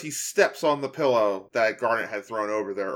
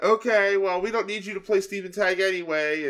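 high, bratty teasing voice; squeaky taunting kid voice; Amethyst voice; 8 semitones higher than usual. Retold or imitated. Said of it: "So when Amethyst is like".

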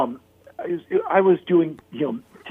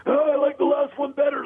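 much higher, lightly voiced offhand verdict; blunt friend; 11 semitones higher than usual. A singer telling Henry he preferred the last record, offhand. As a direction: toss off the put-down casually.

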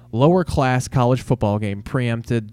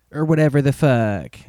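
Jim Cornette voice; 3 semitones higher than usual. Retold or imitated. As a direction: spit "whatever the fuck" like a grumpy old wrestling manager. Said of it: "I sound like Jim Cornette now".

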